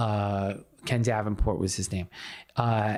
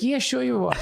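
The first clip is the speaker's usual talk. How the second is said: high, mocking disbelief; sarcastic; 12 semitones higher than usual. Passenger mocking his story, sarcastic. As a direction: roll your eyes at the claim.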